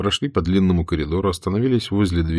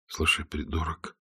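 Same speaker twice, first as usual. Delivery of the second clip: much softer, low and calm; quiet reply; 3 semitones lower, 12 dB quieter than usual. Acted. Stirlitz answers the raging driver quietly, low and cool. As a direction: answer under your breath, unbothered. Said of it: "тихо ответил Штирлиц".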